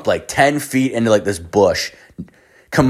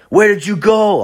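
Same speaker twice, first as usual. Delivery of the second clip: retold anger; 11 semitones higher, 4 dB louder than usual. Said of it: "he was pissed".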